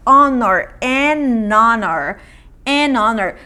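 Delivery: "Honor" with a silent H, linked: an-onor, slow; "An honor" with a mute H. Shown as a demonstration. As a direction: drop the H in "An honor", linking n to o. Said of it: "o H é mudo".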